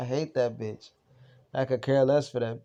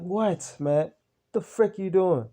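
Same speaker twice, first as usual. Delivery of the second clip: high, pushy demand; retold angry challenge; 6 semitones higher, slower than usual. Catching roommate scaring the dog, a high angry challenge. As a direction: call him out, rattled and annoyed.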